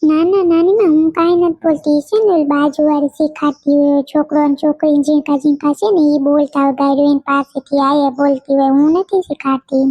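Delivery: put-on small girl protesting her innocence; child denying. Little girl denying to granny she uses bad words, mild childlike protest. Child denies swearing to grandmother.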